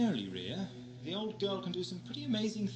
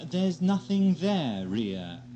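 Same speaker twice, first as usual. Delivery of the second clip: mock pronouncement; 2 semitones lower, 4 dB louder, much slower than usual. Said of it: "I might even be tempted to say".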